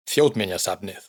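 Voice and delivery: Þjóðminjasafnið with the stress on Þjóð at the start; Icelandic word demo. Shown as a demonstration. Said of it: "el acento siempre lo lleva la primera sílaba". (Þjóðminjasafnið con el acento en la primera sílaba, Þjóð)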